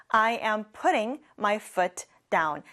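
"I put my bag down" said word by word; very slow model. Shown as a demonstration. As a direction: model the sentence slowly for repeating. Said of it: "같이 해볼까요". (따라 하도록 아주 천천히)

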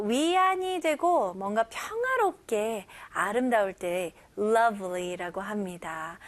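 ordinary talk

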